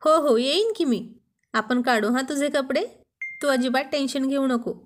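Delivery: hammed-up nervous reassurance; husband feigning fear under his wife's glare, mock-nervous. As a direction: pretend to be scared of the wife. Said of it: "घाबरण्याचं नाटक करत".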